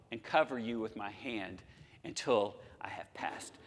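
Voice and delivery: soft unvoiced hush of God's promise; whisper. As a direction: breathe it out, barely audible. God's words fading to whisper.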